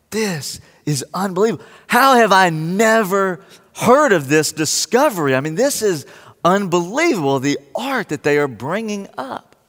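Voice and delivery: amazed viewer gushing at the screen. Retold or imitated. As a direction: gush like you can't believe it. Reliving his amazement watching it.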